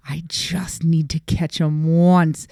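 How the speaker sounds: slow, hushed determination; intent stage whisper. Retold or imitated. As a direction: draw it out like a secret resolve. Repeats resolve slowly, hushed, intent.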